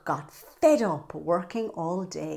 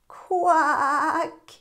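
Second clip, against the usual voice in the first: duck's quack; 9 semitones higher, 5 dB louder than usual. Acted. Duck's reply.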